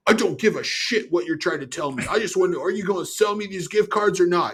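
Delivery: rant. Retold or imitated. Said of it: "I listen to him rant".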